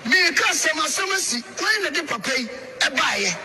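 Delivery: high-pitched urgent retold call. He retells raised-voice command.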